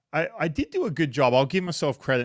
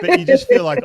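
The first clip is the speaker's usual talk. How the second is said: laughing through the words; breaking into a laugh mid-line; laughing hard while talking; 13 dB louder than usual. Real, not acted. Laughing while telling story.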